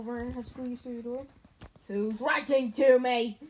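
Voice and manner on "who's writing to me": loud slow demand. A narrator's reading. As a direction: insist on knowing. Harry demanding.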